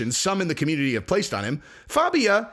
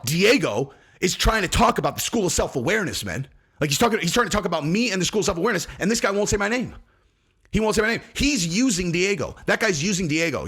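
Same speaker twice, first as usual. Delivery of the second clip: whiny rant; 3 semitones higher than usual. Retold or imitated. Mocking Fabio's ranting complaint.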